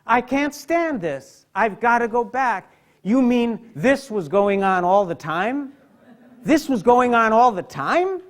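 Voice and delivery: high, loud, anguished outcry; Emily overwhelmed. Acted. Emily back from death, begging to leave, in a high anguished cry. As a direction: cry it out like a girl back from the dead who can't bear it. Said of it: "she says".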